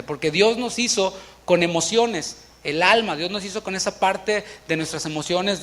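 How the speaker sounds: normal talking voice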